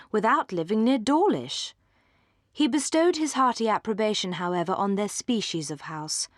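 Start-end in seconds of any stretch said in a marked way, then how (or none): none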